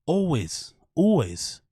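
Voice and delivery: "Always" said "ol-wiz", then "ol-wez"; copying the odd "Always"; mimicked always. Shown as a demonstration. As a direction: try "Always" with a short clipped second syllable. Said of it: "pronounce always".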